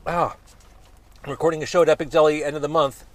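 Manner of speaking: eyes streaming from hot sauce; talking while tearing up from the burn; teary from spicy food. Real, not acted. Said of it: "I'm in tears as I'm talking here".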